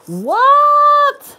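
sudden high, loud shocked yelp; jolted by what she just read; stunned what. Real, not acted. Streamer reading viewer's ban comment, loud shocked yelp.

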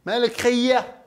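Palestinian dialect. Shown as a demonstration. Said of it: "بيقولوا بالفلسطيني".

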